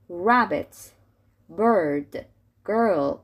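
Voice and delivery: put-on "Rabbit", "Bird", "Girl" with untrilled r; English R. Shown as a demonstration. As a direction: pull the tongue back for r in "Rabbit", "Bird", "Girl". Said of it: "ر که توی انگلیسی از اینجا میاد". («Rabbit» و «Bird» و «Girl» با ر انگلیسی)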